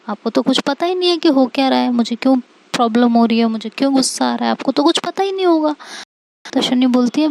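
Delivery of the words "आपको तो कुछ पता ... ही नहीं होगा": quick, rising sarcastic complaint; hurt, sarcastic comeback; miffed retort. Acted. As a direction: throw it back quickly, pitch climbing at the end. Quarrel, sarcastic retort to friend.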